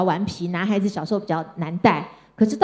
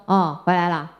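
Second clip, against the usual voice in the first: lower, curt and indifferent; cold greeting; 3 semitones lower than usual. Retold or imitated. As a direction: greet her flatly, no warmth. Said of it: "然后看到我就说". (妈妈冷淡地对女儿说，敷衍冷漠)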